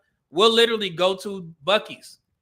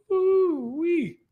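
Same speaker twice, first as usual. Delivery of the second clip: excited exclamation; 12 semitones higher than usual. Real, not acted. Reacting to brisket comment.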